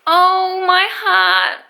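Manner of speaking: overwhelmed with joy at the gift; touched. Real, not acted. Vlogger finds a friend's surprise present, touched high cry. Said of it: "not gonna cry".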